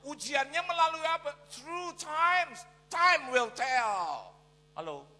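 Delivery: high, very loud drawn-out proclamation; full-force preaching. Real, not acted. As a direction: belt it out to the congregation.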